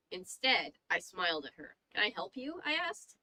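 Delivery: measured, suspenseful read-aloud; story narration. A narrator's reading. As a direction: narrate an eerie tale, lingering on the descriptions. Reads a horror story aloud.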